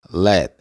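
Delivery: "Let" with the T held, not released; silent final T. Shown as a demonstration. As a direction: stop on the T of "Let" without sounding it. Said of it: "como si fuera a pronunciar la T". ("Let" con la T final insinuada, sin pronunciarla)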